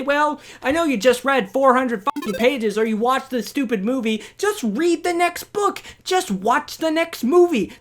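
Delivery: sarcastic brush-off impression; mocking the filmmakers. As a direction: sneer it like a lazy studio. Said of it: "resolved and just say".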